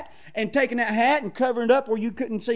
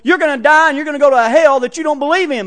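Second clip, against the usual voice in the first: shouted warning; 3 semitones higher, 14 dB louder than usual. Pretend. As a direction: bellow it at them like a final warning. Preacher voicing warning to visitors.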